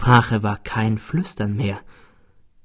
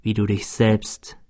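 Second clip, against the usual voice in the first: dying man's last words. Acted. Dying rival speaks last words.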